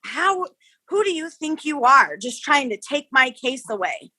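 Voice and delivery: lightly indignant retelling of a scolding; retold angry. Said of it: "she was so angry with me".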